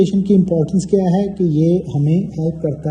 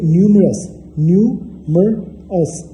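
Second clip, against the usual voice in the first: slow syllable model; 3 semitones higher, much slower than usual. Shown as a demonstration. Teacher models syllables slowly.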